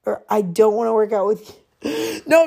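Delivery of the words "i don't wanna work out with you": harsh rejection. Shown as a demonstration. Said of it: "don't say it like".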